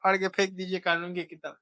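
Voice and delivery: lightly voiced pleading lawyer; a hint of a lawyer's plea; imitating eager lawyer. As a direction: play the lawyer begging the judge, half-mocking. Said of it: "ऐसे हम वकील सोचते हैं कि sir".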